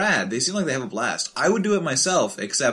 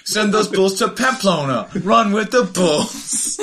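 loud slow announcer call; 6 semitones higher, 4 dB louder than usual. Pretend. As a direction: proclaim it to the crowd. Mock announcer shouting.

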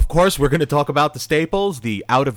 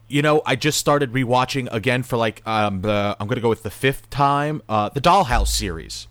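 mumbling around a cigarette; cigarette in mouth. Real, not acted. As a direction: cigarette between the lips. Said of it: "I have a cigarette in my mouth".

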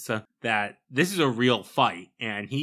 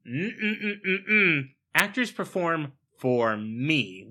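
mocking echo; 4 semitones higher, slower than usual. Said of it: "And Elizabeth's like".

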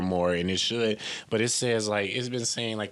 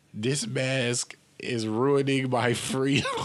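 mock anti-masker; 4 semitones higher, slower than usual. Shown as a demonstration. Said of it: "say that in the mirror".

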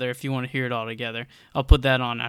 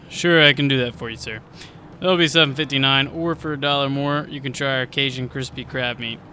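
upselling cashier; 5 dB louder than usual. Acted. Cashier pushes Cajun upgrade.

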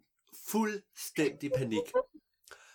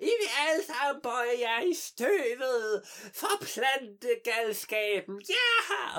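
slow, laughing villain proclamation, ending in a high shout; mad villain; 7 semitones higher, 4 dB louder, slower than usual. Acted. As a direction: gloat over everyone like a crazed queen. Mad botanist proclaims her triumph. (gal biolog udråber sin sejr, langsomt og leende)

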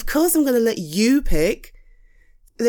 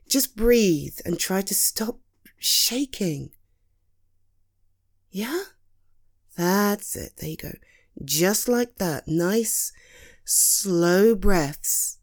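calm guiding; slower than usual. Acted. Guiding friend to breathe.

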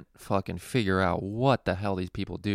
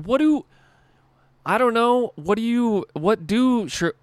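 much higher and louder, sputtering in disbelief; high, loud, flustered outburst; exasperated; 14 semitones higher, 6 dB louder than usual. Retold or imitated. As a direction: splutter like you can't believe the question. Exasperated retelling of own reaction.

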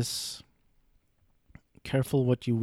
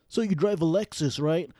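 mocking the boy; 5 semitones higher than usual. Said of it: "Just like".

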